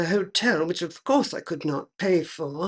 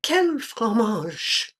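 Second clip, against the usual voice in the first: mocking repeat; 3 semitones higher, much slower than usual. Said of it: "that silly expression".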